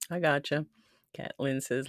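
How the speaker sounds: ordinary talk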